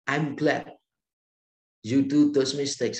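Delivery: loud and slow, beaming; warm praise. Retold or imitated. Professor to student who wrecked the engine, a slow loud glad reply. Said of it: "Pak Tong bilang begini".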